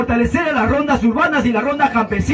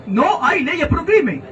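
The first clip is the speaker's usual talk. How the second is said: slow sneering repetition; slow scornful parody of an opponent; mocking quote; 2 semitones higher, slower than usual. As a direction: drag out the slogan to ridicule it. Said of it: "¿Qué dice el puerco?".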